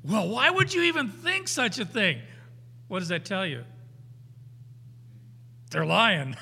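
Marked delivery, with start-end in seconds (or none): 0.0-2.2 high, offended mock dodge of the question; feigned outrage in a high voice; evasive liar. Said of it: "Did you do it?". 5.7-6.4 said through a laugh; amused reveal. Real, not acted. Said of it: "punchline with laugh".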